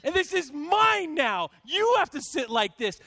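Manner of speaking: mildly hammed-up outrage; retold upset. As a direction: re-enact fuming at a seatmate, words stretched. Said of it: "getting more and more upset".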